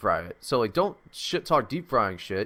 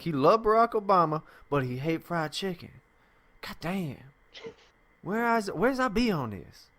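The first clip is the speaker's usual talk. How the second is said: exaggerated dialect, torn and bewildered; hammed-up puzzled guard, rising high on the question; caricatured TSA agent; 4 semitones higher than usual. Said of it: "super racist with that".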